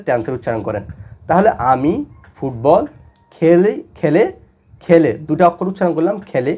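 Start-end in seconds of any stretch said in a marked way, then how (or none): 1.7-5.1 word-by-word demonstration. Shown as a demonstration. Teacher building the Bengali translation for students, word by word. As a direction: separate each word with a pause.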